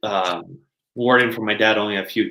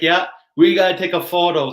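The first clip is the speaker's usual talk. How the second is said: excited; 9 semitones higher, 4 dB louder than usual. Retold or imitated. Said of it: "I'm like".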